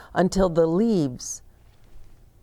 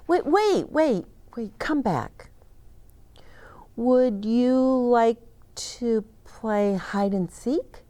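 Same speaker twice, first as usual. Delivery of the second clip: eager calling; 6 semitones higher than usual. Acted. Boy calls Bear back.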